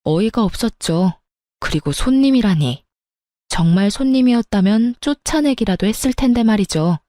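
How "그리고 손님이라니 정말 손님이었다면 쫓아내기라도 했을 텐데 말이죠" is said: ordinary delivery, nothing marked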